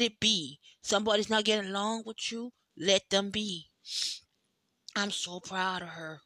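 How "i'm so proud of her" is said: softer, tearful and breaking; choked up. Real, not acted. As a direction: say it through tears. Tearful praise of friend.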